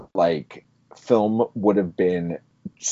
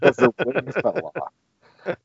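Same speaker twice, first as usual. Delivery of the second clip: higher, slow words broken by real laughter; laughing while talking; 7 semitones higher than usual. Real, not acted. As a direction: crack up while getting the line out. Cracking up at the retold scene.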